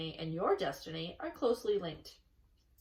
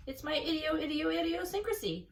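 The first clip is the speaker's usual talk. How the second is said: stammering gander; 8 semitones higher than usual. A narrator's reading.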